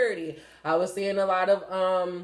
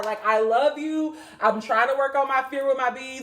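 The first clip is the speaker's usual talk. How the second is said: ordinary talk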